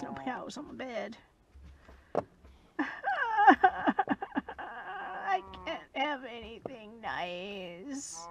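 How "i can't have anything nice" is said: mock crying.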